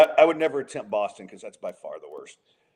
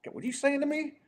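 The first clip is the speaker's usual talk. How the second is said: put-on a failed stab at a brash New York accent, pitched way up; hammed-up New Yorker who sounds abrupt, higher and louder; attempted New York accent; 4 dB louder than usual. Friend mimicking a New Yorker during a podcast chat, badly faked New York accent. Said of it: "And I can't do a New York".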